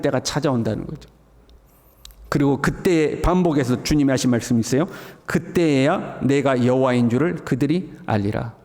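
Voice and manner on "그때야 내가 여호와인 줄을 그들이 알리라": slow, weighty reading of the verse; 느리고 장엄하게 성경을 낭독하는 목소리; solemn scripture reading. Shown as a demonstration. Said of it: "reads verse slowly". (느리고 장엄한 낭독)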